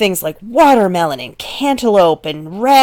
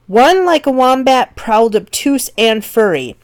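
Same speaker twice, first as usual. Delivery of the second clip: deliberate verse reading; slowed line; 4 semitones higher than usual. Shown as a demonstration. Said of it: "That has a lot of extra syllables".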